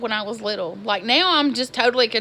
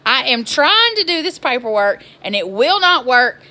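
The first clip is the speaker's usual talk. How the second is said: retold livid rant; 3 dB louder than usual. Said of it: "I was livid".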